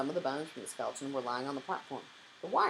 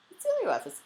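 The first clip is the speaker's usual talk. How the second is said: high, loud announcement; reciting aloud; 8 dB louder than usual. A narrator's reading. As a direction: call out the name, pitched high. Cam recites from memory aloud.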